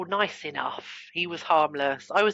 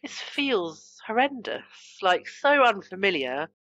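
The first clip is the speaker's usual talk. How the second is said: alarmed inner voice; 3 semitones higher, slower than usual. Retold or imitated. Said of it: "My brain was like".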